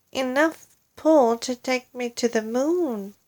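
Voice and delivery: high frightened cry; cried out. Acted. Wife fears floating to the moon, high cry. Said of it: "Missus Twit cried out".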